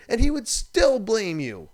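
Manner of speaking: ranting host stressing the point, loud and slow; emphatic loud. Real, not acted. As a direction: hit the line hard and slow. Ranting about reckless skier.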